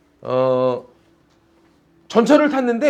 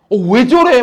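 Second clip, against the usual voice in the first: mock disgusted remark; 3 semitones higher, 8 dB louder than usual. Imitating a bystander's remark.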